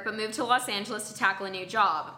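even, measured reading of an anecdote; scripted first-person storytelling; story read aloud. Acted. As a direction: read the story out neatly, line by line. Reads a submitted story aloud.

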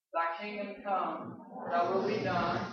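slow, measured recitation; leading congregational prayer. Real, not acted. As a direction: lead the room phrase by phrase. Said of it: "Say that with me".

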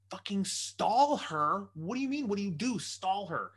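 high, loud, urgent retold order; panicked urging. Telling the friend to stall his wife, panicked urging. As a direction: pitch jumps up in exasperated panic.

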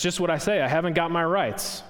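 lightly voiced aggrieved ghost; indignant ghost. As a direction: throw his words back at him. Ghost throws the words back.

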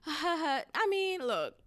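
imitated awkward laugh-it-off backpedal; chuckle, start high, then brush it aside; playing it off. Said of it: "had to play it off".

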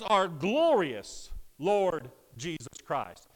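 "glorious" drawn out, each following word set apart slowly; slow, weighty reading that lingers on "glorious"; emphasis on glorious. Real, not acted. Preacher reading the verse to the congregation, emphasis on "glorious". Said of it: "I want to emphasize the word glorious".

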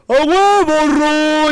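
high, loud bro yell; cocky shout. Retold or imitated. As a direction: hype it up like a show-off. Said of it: "de mamador".

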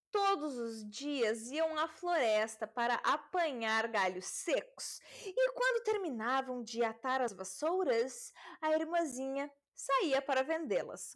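slow, theatrical fairy-tale reading; drawn-out storyteller delivery with pauses; story narration. A narrator's reading. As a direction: read it grandly, lingering on key words.

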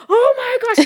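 high, laughing oh my gosh; overwhelmed squeal. Retold or imitated. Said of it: "Because I was like".

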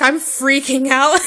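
slow, stretched words breaking into laughter; retold freak-out. Fan admitting nerves to wrestler, laughing mock freak-out. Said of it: "and I was shaking".

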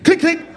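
high, sharp imitated gun clicks; mock gun clicks. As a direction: click out a cocked pistol. Mimics gun cocking in robbery.

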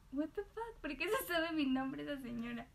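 jumps up high in disbelief; baffled, as if a stranger knew her name; shocked inner reaction. Retold or imitated. A server hearing a stranger call her name, baffled. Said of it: "Y yo".

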